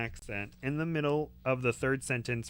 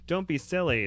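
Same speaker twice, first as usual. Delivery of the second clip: raised, scratchy bird voice; 5 semitones higher, 4 dB louder than usual. Acted. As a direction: scratch it out like a parrot. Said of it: "said with a scratchy voice".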